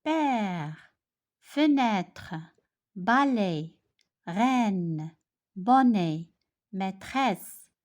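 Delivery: Père, fenêtre, balai, each said alone with a long open è; pronunciation demo. Shown as a demonstration. Teacher has pupils listen for a repeated sound, pronunciation demo. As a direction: model each word from Père to maîtresse, drawing out the è. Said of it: "regardez et écoutez bien".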